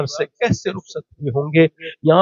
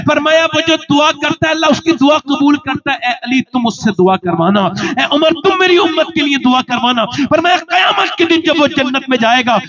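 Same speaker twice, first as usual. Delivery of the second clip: fiery preaching; 12 semitones higher than usual. Acted. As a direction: preach it out at the top of your voice. Preaching at full force. (پرجوش خطابت، اونچی بلند آواز میں)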